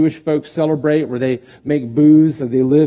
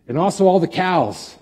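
high, playful mock quote; amused paraphrase; 5 semitones higher than usual. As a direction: toss it off with a grin. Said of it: "What a weird ending".

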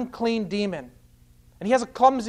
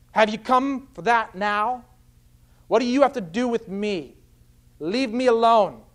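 imitated demon's raised challenge; mildly defiant protest, pitched up; confrontational; 4 semitones higher than usual. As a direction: push back as if to delay the inevitable. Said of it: "He speaks with words of strength and confrontation".

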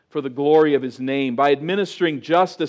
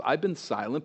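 "I've been silent" said quieter and gently; soft confiding; 4 dB quieter than usual. Shown as a demonstration. God speaking gently to Habakkuk, "I've been silent" softly. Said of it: "God says".

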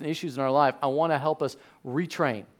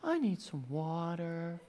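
Titus; 14 dB quieter, slower than usual. Retold or imitated. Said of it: "Titus will come down again".

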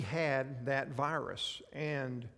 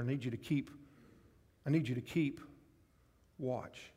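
weary plea. Acted. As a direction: let it sink and fade, worn out. Voicing Jesus's weary plea.

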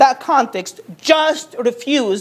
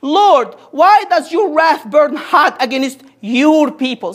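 pleading Moses; slower than usual. Acted. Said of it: "Moses pleaded".

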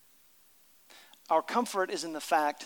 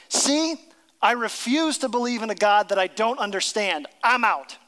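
louder, dismissive refusal; cynic refusing; 4 semitones higher, 4 dB louder than usual. Retold or imitated. Imitating a cynic walking away from faith, dismissive. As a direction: toss it off like you're done. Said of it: "throw up their hands and say".

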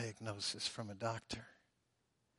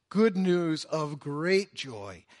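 "Good news of great joy" slow, every word louder; every word emphatic; 3 semitones higher, 8 dB louder, slower than usual. Shown as a demonstration. Preacher quoting Spurgeon, every word emphatic. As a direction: stress each word, "Good" strongest. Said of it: "Every word is emphatic".

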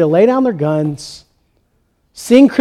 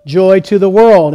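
imitated German accent, lightly done; thick German accent. German soldiers heard from the British trenches, imitated German accent. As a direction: give the carol a touch of a German accent. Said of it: "in that thick German accent".

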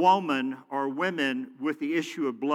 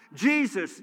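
higher-pitched mock call; imagined crying out; 5 semitones higher, 4 dB louder than usual. Preacher imagining the woman calling Jesus, mild retold cry. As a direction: call out lightly, as if from a crowd. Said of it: "Why didn't she just cry out".

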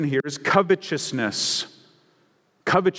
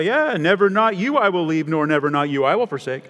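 mock stumbling reader. Preacher imitating a reader stumbling over a literal Bible, mock puzzled. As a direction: read it like someone tripping over an awkward translation. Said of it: "you stop and go, "Uh, that's awkward".

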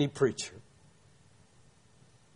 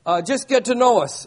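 louder and higher, pushing past his excuse; hearty Southern insistence; 4 semitones higher, 4 dB louder than usual. Retold or imitated. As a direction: boom it out like a pushy country preacher. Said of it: "He said".

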